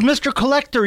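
put-on high, loud child voice, insistent; imitating little son. Host imitating his young son naming the TV star, high child voice. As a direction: squeak it like a small kid correcting dad. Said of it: "He goes".

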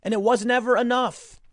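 cracking high voice of outraged disbelief; indignant disbelief. Retold or imitated. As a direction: act out outraged disbelief at the ungrateful guy. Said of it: "And I was like".

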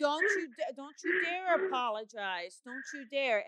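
no apologizing, stress dare; firm loving insistence. Real, not acted. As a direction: lean hard on dare, warm but firm. Caller apologizes for crying.

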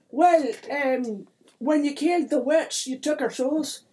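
put-on high-pitched, loud accented leprechaun voice; put-on lilting little-folk voice; accusing leprechaun.

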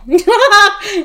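laughs while saying "Haven" as HAY-ven; laughing Haven. Real, not acted. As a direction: giggle out "Haven" like a typo read aloud. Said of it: "It says Haven".

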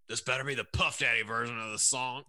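imitated strained, half-shouted grumble; mock freak-out. Host retelling a video of a caller on hold, mock outburst. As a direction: mimic an angry caller losing it. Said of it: "he starts freaking out".

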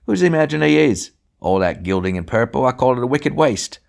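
high, loud scandalised complaint; a prim woman appalled at the gilding; indignant outrage. A narrator's reading. Indignant voice rails at driver.

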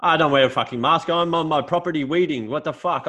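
hammed-up indignant old fella; ranting old farmer. Old farmer ranting at the neighbour, mock outrage.

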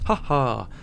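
good-natured spoken "ha ha"; imitated chuckle. Customer laughing off the politician compliment, good-natured chuckle. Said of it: "And he chuckles".

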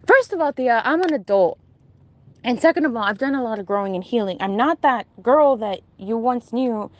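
acting out an indignant rebuttal; defensive. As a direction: stand your ground, mildly aggressive. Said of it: "defensive and aggressive".

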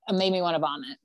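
usual speaking voice

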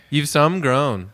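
slow Maritimes granny imitation; New Brunswick grandmother accent. Grandson repeating Grammy's phrase, slow New Brunswick accent. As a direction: correct them in a Maritimes accent, drawn out. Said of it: "My Grammy from New Brunswick talks like that".

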